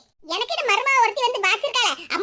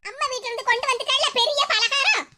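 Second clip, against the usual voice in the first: mildly raised, scornful grumble; scolding aloud; 3 semitones higher than usual. Acted. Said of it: "எப்படி சத்தம் போட்டுக்கிட்டு இருக்காங்கன்னு". (மருமகளை லேசாக ஏசும் குரல்)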